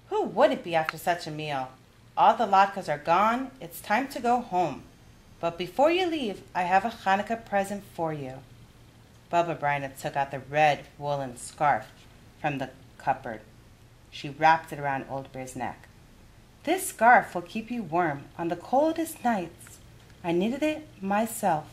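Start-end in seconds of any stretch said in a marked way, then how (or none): 0.1-8.4 a higher, lively grandmother voice; kindly old granny offering a game; Baba Bryna's voice. Acted. Baba speaks. 16.6-21.7 a higher, lively grandmother voice; kindly old granny offering a game; Baba Bryna's voice. Acted. Baba gives gift.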